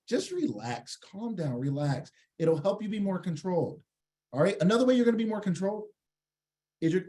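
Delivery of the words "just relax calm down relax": soothing. Shown as a demonstration. Coaches listeners to loosen their shoulders.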